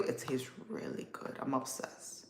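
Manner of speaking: breathless whisper of delight; whispered gush. Real, not acted. Creator whispering to viewers about the drink's taste. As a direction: whisper it like a guilty pleasure.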